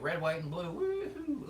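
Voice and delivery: high-pitched whoop building to the end; mock patriotic cheer. Imagining what freedom sounds like, mock patriotic cheer. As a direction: cheer it, soaring way up on woohoo.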